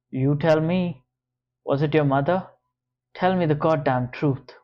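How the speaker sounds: loud hard demand; angry. Acted. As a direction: demand the truth angrily. George interrogating her.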